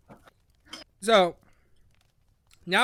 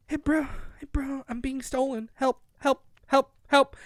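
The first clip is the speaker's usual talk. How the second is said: high-pitched, half-hearted cries for help; play-acted distress call; mock plea for help; 4 semitones higher than usual. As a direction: plead in a small raised voice, jokingly urgent. Dream figure calls for help.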